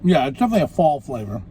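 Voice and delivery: talking with a mouthful; words round a bite of food; mouth full. Real, not acted. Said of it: "I'm definitely talking with my mouth full".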